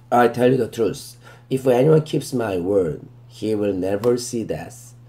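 very slow, deliberate verse reading, word by word; slow scripture reading. Shown as a demonstration. Teacher reading the verse to students, very slow and deliberate. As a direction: read it out slowly so students can follow.

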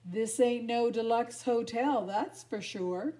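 lightly voiced tough little dog; a touch of streetwise swagger; Chihuahua voice. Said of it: "said Pedro the Chihuahua".

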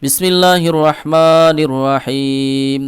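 slow, drawn-out melodic recitation; opening Bismillah, recited slowly; Quranic recitation. Shown as a demonstration. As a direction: chant it slowly, stretching the vowels. Opening recitation before lesson.

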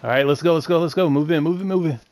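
high, loud hype yelling; urgent rallying yell; excited shouting. Real, not acted. Rushing the enemy squad.

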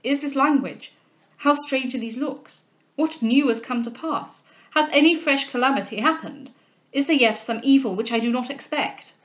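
mildly amazed, anxious questioning; a touch of alarm; astonished. Acted. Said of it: "cried the astonished Delvile".

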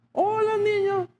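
very high, sing-song fake hello; a sugary hello that hides dislike; mock polite greeting. Pastor mimics greeting a rude child he dislikes, high sing-song.

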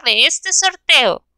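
drawn out slowly; slow it down for suspense; suspense build-up. Acted. Slowing toward the winner reveal. (alargando con suspenso)

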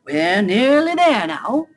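slow, encouraging Badger voice; kindly Badger. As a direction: reassure the little one, taking it slowly. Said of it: "said Badger kindly".

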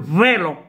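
فيلو with an open è; grave accent demo. Shown as a demonstration. Teacher showing pupils how a grave would sound, open è in فيلو. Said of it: "ملي تتكون grave".

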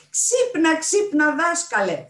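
high, loud, excited shout; shouted wake-up call. A narrator's reading. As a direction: rouse a sleeping old friend. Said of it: "φώναξε η Μάρθα Ρουθ".

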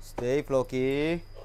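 slow, low, soft command; drawn-out, hushed stay command; steadying the dog. Real, not acted. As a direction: stretch it out quietly to hold the dog still. Telling dog to stay put.

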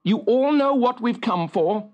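firm, commanding witch; stern. A narrator's reading. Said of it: "said Fricka sternly".

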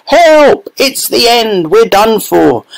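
put-on terrified old man; panicked yell. A narrator's reading. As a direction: Grandpa Joe crying out as the roof breaks. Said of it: "Grandpa Joe shouted".

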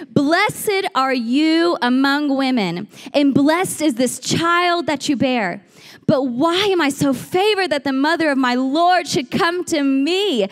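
mildly excited, drawn-out proclamation; loud exclamation. Acted. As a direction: exclaim it slowly, with a touch of awe. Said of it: "In a loud voice, she exclaimed".

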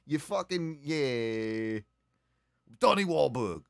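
put-on Boston accent. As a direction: bark it like a rowdy Boston fan. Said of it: "In a Boston accent".

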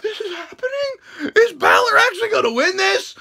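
high, hushed disbelief; mock gasping amazement, high; stunned disbelief. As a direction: ask it like you can't believe your eyes. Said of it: "I'm like, gasps".

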